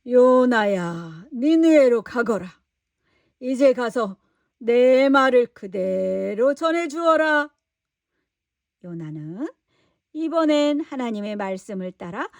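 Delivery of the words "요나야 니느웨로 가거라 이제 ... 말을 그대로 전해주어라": slow, louder solemn command; God commanding. Acted. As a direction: speak as God giving an order. God commands Jonah, slow, loud. (느리고 큰 소리로 명령하는 하나님)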